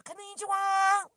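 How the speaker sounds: high mock voice of the headphone lady. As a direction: chirp it like a device announcer. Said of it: "this woman is going".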